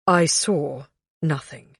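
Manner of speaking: slow, hesitant servant voice; a nervous servant, holding back. A narrator's reading. Nervous servant answers queen.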